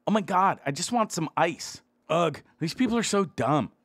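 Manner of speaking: mock bratty, whiny Californian; rude demanding tourist. California students complaining to a French cook, mock whiny and rude. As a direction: ham up a spoiled tourist's complaint. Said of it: "They were pretty rude and demanding".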